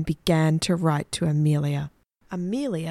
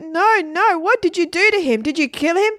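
high, loud panicked questions; horrified alarm; 12 semitones higher, 6 dB louder than usual. A narrator's reading. Margaret asks Adeline about the fallen teacher, horrified. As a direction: demand answers in alarm.

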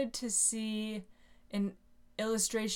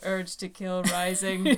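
deadpan robot threat. Pretend. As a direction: intone it like a killer robot. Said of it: "Simpsons reference".

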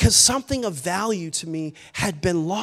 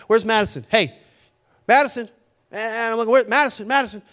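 mildly worried searching call, a little raised; initial concern; 3 semitones higher, 3 dB louder than usual. Retold or imitated. Dad first noticing his daughter is missing, mildly concerned. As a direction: call around for a missing child. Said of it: "initially, I'm kinda like".

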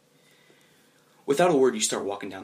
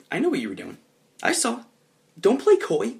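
stern dad; 10 semitones higher, 5 dB louder than usual. Acted. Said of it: "talking like you're some sort of leader".

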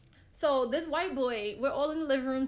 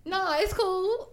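slow, higher-pitched mock country drawl; half-attempted country twang, stretched and lifted; attempted country accent; 6 semitones higher, 4 dB louder, much slower than usual. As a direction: roughly imitate a country white guy's accent, drawn out. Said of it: "I can't even imitate his accent".

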